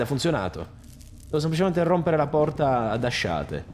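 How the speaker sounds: normal talking voice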